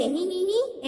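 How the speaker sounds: light mock giggle "hee hee hee"; a small teasing giggle, lightly voiced. Ant sister teasing the elephant, a light mock giggle. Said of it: "અને દાંત કાઢે છે".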